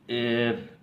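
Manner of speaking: एफ high, with a long held vowel; teacher sounding out एफ; pronunciation demo. Shown as a demonstration. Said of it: "उच्चारण किया जाता है".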